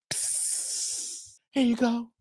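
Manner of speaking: hushed psst, then soft offer; furtive act. Acted. Man handing her a spiked drink, mock sneaky. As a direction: act out slipping something over quietly.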